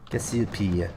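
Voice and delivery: "Cassiopeia" said the French way, falling, kes-ee-PEE; a half-hearted French take on "Cassiopeia"; mock French accent. Shown as a demonstration. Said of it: "too nasally to do my, the proper French accent".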